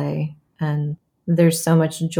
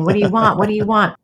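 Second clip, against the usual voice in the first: lightly hammed-up demanding director, higher; demon director; 4 semitones higher, 3 dB louder, faster than usual. Mother retelling her demand to her child, mock demon director. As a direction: press the repeated question, mock-demonic and higher. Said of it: "almost like Stanislavski demon saying".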